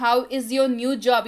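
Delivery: slow and clear, word by word; slow model sentence. Shown as a demonstration. Teacher reads the English line slowly for Hindi students. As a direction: spell it out slowly for learners. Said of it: "teacher repeats the model sentence".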